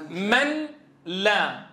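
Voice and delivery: "من لا" very slow, n sounded, then "لا" apart; unmerged noon. Shown as a demonstration. Teacher sets students the question, unmerged noon. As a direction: separate "من" from "لا" with a clear n. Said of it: "شو ناتج الإدغام؟".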